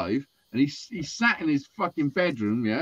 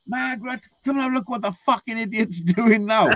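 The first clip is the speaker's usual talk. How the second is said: retold shouting dad; 8 semitones higher than usual. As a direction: imitate an exasperated dad calling his wife. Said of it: "then his dad's shouting".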